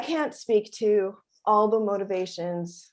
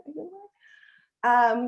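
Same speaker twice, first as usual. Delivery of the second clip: bolder repeated question; 7 semitones higher, slower than usual. Retold or imitated. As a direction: ask again, this time so they hear. Asking elders if in line.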